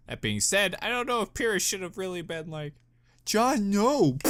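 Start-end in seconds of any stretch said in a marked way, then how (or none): 3.3-4.2 high, pointed mock scold at the screen; telling John off, drawn out. Real, not acted. Reacting to John on screen, high mock scold.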